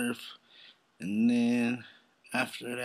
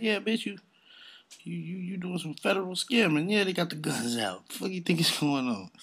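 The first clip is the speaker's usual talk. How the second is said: louder, higher heated rant; 8 semitones higher, 6 dB louder than usual. Real, not acted. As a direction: call her out, loud and high. Ranting at scammer.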